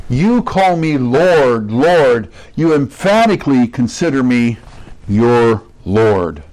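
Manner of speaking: slow, weighty stress on "You" and each "Lord"; emphatic declaration. Acted. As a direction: lean hard on "You" and draw out "Lord, Lord". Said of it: "to show the emphatic form of this".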